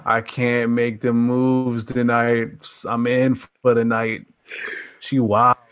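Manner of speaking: slow, lazy excuse voice; bailing friend. Retold or imitated. Friend cancelling plans because of his girl, slow and lazy. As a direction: drag it out like a lame excuse.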